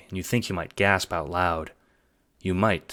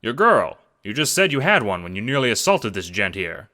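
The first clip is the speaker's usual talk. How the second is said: higher, louder, fast-talking pitch; eager schemer; 4 semitones higher, 5 dB louder than usual. Acted. Jacob pitching the assassination job, eager and hustling. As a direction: sell the plan like a hustler.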